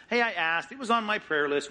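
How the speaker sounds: casual offhand. Pretend. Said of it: "It's not just".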